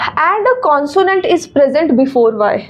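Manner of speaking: reads the rule out slowly, word by word; slow rule reading. Shown as a demonstration. Teacher reading a rule aloud to students, slow and deliberate. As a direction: dictate the grammar rule slowly to the class.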